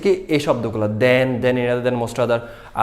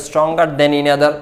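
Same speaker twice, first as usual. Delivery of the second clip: slow example read; 5 dB louder, much slower than usual. Shown as a demonstration. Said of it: "example করতে".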